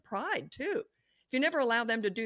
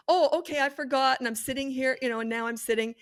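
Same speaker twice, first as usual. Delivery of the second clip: put-on whiny child excuses; 5 semitones higher, 6 dB louder than usual.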